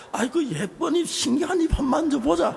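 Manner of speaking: high, loud cooing tease; husband teasing wife about her clever mouth; playful teasing. Retold or imitated. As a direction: tease her fondly, sing-song. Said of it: "아이, 이렇게 말하고".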